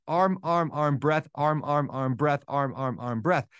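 steady rhythmic stroke chant, running on without gaps; simple rhythm. Retold or imitated. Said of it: "a very, very simple rhythm".

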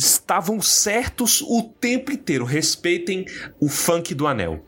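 high-pitched victory proclamation; triumphant vindication. Real, not acted. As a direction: crow it high and insistent. Triumphant vindication, demands respect.

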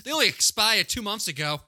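high, pushy Boston hustler voice; Boston hustler begging a kid to buy food stamps; hammed-up Boston hustler. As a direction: wheedle like a shady street hustler. Acted hustler selling food stamps.

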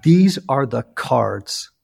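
slow, stern monk; monk looks into the camera and speaks sternly to Ian. Retold or imitated. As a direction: imitate a stern spiritual director, slowly. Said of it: "in a very stern voice".

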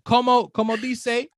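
slow halting gringo Spanish; Como, como dice said slowly with a gringo accent; American accent Spanish. Pretend. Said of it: "I sound like a gringo".

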